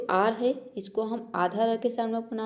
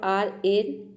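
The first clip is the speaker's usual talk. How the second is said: slow spelling; 2 semitones lower, much slower than usual. Shown as a demonstration. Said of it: "आर का हो गया आधा र".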